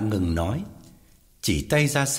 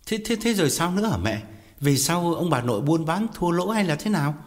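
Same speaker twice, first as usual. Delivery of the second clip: hỏi dồn, nhanh và cao giọng; sốt ruột muốn biết ngay; impatient question; 6 semitones higher than usual. Acted. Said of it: "Quán sốt ruột hỏi". (con trai sốt ruột hỏi mẹ, giọng gấp gáp)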